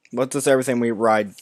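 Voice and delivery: tripping over the words; stuttering. Real, not acted. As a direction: stumble and restart the word. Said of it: "I'm stuttering so much tonight".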